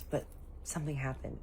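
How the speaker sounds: very soft, secretive confiding; imitated whisper. Girl confiding to auntie that something happened, hushed. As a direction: let it out under the breath. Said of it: "whispers in my ear".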